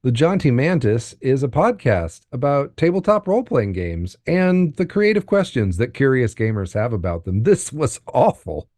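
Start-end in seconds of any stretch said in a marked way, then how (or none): 0.0-7.4 overly formal intro. Real, not acted. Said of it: "defaulted to being way overly formal".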